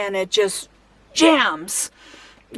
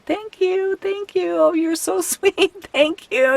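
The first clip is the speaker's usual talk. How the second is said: polite thanks; 8 semitones higher than usual. Retold or imitated. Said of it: "And I'm just going".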